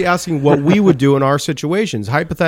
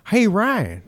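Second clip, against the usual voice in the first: put-on a faltering try at Trish's accent, pitched up; Trish's accent attempt; 6 semitones higher than usual. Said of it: "I can't do her accent".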